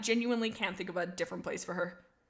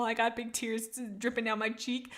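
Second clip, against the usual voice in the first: teary. Real, not acted. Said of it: "I cry. I am emotional".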